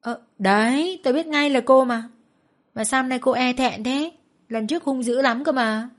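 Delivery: exclaim, then tease her; surprised recognition. A narrator's reading. Nam recognises the girl, surprised and teasing. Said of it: "Nam ồ lên ngạc nhiên".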